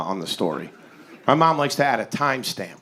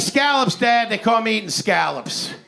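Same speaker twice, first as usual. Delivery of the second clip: pitched-up, eager excuse; nervous excited lie; 7 semitones higher than usual. Retold or imitated. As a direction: sell the lie brightly. Lying to dad on phone.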